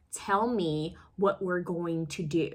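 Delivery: slow, deliberate lines, every word pronounced; a light take on her careful, measured delivery; Kerry Washington imitation. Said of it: "she talks like this".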